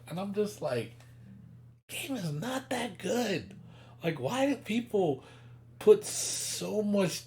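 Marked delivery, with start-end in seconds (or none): 1.9-7.3 dismissive. Retold or imitated. Mock reply to hyped fans.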